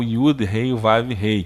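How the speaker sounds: letters spelled out slowly, one by one; slow letter spelling. Shown as a demonstration. Teacher slowly naming the letters of the sacred name. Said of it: "que é o tetragrama sagrado".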